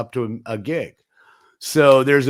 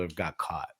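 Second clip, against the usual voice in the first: whispering. Real, not acted. Confiding about customers getting caught.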